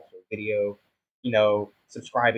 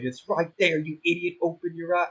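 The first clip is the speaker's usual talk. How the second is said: mock viewer yell; 7 semitones higher than usual. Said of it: "screaming at me saying".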